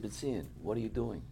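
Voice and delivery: softened, understated quoted voice; gently retold question; soft-spoken rebbe. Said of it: "he spoke very softly".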